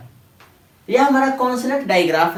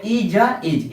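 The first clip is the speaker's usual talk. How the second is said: sounding out; much slower than usual. Shown as a demonstration. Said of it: "जिसे हम क्या कहेंगे?".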